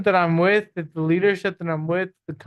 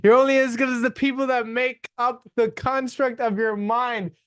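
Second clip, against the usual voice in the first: talking through hiccups, laughing; 5 semitones higher than usual. Real, not acted. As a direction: keep going between hiccups. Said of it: "like, hiccuping".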